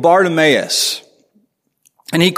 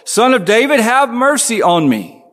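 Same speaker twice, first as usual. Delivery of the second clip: higher, insistent pleading call; crying out more; 6 semitones higher than usual. Retold or imitated. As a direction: raise the plea over the crowd. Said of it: "he kept crying out all the more".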